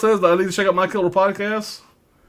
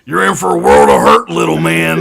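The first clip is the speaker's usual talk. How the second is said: villain movie line; 6 dB louder than usual. Retold or imitated. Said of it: "whoever the hell he is".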